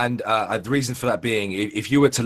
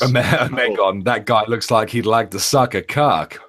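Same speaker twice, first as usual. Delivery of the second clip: put-on American accent. Teasing a friend about his photo in an attempted American accent. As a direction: try on an amateur American accent. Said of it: "my American accent is improving".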